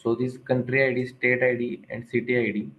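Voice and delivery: speaking up. Real, not acted. Student repeating for the trainer who couldn't hear, speaking up. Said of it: "Can you please speak bit louder?".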